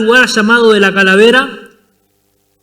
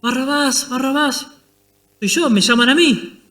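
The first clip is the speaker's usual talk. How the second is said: much softer, muffled name echoing; hushed realization; 3 semitones higher, 6 dB quieter than usual. Acted. Barabbas in his cell hearing his name called, hushed. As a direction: whisper it as if heard from a cell.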